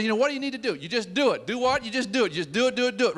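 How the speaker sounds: mimicking a motivational speaker, high and insistent; Art Williams. Retelling the speaker's do it speech, insistent. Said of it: "gives me the do it speech".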